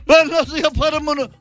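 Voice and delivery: high, fretting whine over a nine; whiny friend. Retold or imitated. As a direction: mimic a panicking straight-A student. Mocking the grade-obsessed friend.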